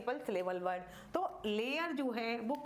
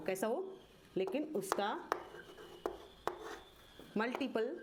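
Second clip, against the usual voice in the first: phrase by phrase, long pauses and repeats. Shown as a demonstration. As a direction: dictate steadily so pupils can copy. Dictates a rule while writing.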